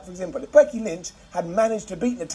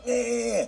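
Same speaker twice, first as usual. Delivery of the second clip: bleating, goat-like yeah; goat noise; 6 semitones higher, 4 dB quieter than usual. Retold or imitated. Reviewer copying his own goat noise of delight. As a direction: let out a short goat bleat. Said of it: "that weird goat noise I sometimes do".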